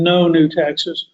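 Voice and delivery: each word slowly spaced, No new taxes; a mocking politician quoting Bush, spelling out the slogan slowly; slow emphatic slogan. A political commentator mimics Bush's campaign line, slow and deliberate. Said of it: "he goes on to say".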